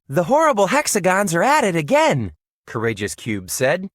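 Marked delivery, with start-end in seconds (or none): 0.1-2.3 fast, higher and urgent, bursting in; urgent alarm. Acted. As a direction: blurt the warning breathlessly quick. Cube runs in with alarm.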